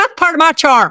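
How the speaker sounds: affected, very high put-on voice. Recalling the audiobook recording, the speaker retells their own reply in a put-on voice. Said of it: "(puts on voice)".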